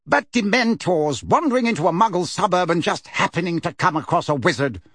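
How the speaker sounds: snorting scorn. Acted. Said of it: "snorted Fudge".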